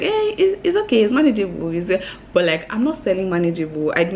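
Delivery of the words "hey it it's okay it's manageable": dismissive average person. Retold or imitated. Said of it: "they'll be like".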